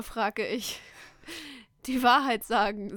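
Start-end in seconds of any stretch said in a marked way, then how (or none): 1.9-3.0 firm and louder, reading the brother's serious line. Retold or imitated. Brother demanding the truth, in a firm serious tone. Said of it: "sagte er mit ernstem Ton".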